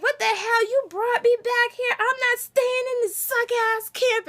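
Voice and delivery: put-on high-pitched, indignant teen outrage; mock Beth throwing a snotty fit; bratty attitude. Beth snapping at Daryl over going back to camp, high and indignant. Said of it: "has this super attitude".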